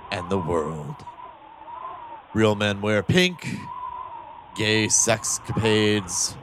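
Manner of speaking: slow, grave trailer-voice narration; dramatic narration. Acted. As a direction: intone it like a solemn epitaph. Mock dramatic epitaph for podcast.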